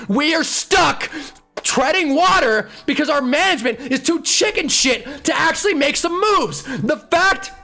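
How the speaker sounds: angry shout. Real, not acted. Fan ranting to co-host about management, shouting. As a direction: shout it out in disgust.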